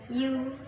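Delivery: "You" said with a falling tune; falling intonation. Shown as a demonstration. Teacher isolates the last word to show falling intonation on "You". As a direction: drop the pitch through "You". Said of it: "It is fall".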